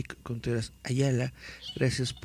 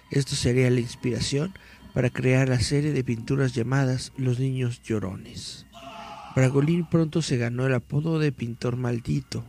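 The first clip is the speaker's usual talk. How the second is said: dramatic read-aloud of a mystery article; 3 dB louder than usual. Acted. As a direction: read it like a creepy news report.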